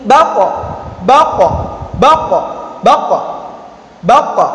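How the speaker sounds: "bako" said as baq, q checked with a short echo; held sound. Shown as a demonstration. Teacher drilling suaranya tertahan, held sound. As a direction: stop hard on the q in "bako". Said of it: "Jadi suaranya terta".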